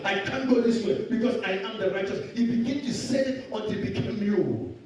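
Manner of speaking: insistent, driving sermon delivery; fervent preaching. Acted. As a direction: drive each declaration home to the congregation. Preaches with rising force.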